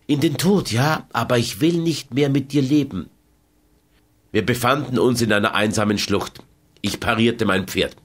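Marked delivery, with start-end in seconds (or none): 0.1-3.1 lightly voiced proud Gypsy woman, a bit higher; a hint of defiant Carmen, cold and firm; Carmen's defiant reply. Carmen refuses to live with José, lightly defiant.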